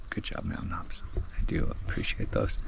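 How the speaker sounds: soft whispered aside; whispering. Real, not acted. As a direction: whisper it to yourself. Whispered brand praise aside.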